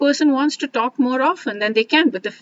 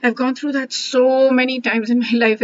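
getting emotional; 3 semitones higher than usual. Real, not acted. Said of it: "I'm getting emotional".

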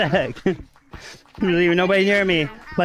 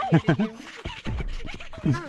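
high-pitched soft laugh; real high giggling laugh; 6 dB quieter than usual. Real, not acted. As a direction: let out a long, high laugh. Laughing during tag game.

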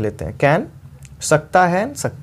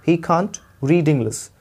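very slow, spaced teaching read; slow model reading; much slower than usual. Shown as a demonstration. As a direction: read it slowly for learners. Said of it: "teacher repeats slowly".

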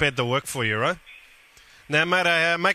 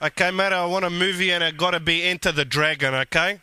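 Guido prank character. Acted.

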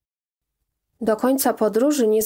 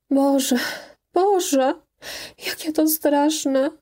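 higher-pitched, understated dismay; distressed; 5 semitones higher, slower than usual. A narrator's reading. Bogna realising everyone at the fund knows, distressed. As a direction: lament in dismay, slowing at the end.

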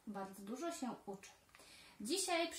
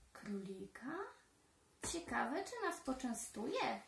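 sly foxes; 3 dB quieter than usual. Acted. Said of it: "zastanawiają się lisy".

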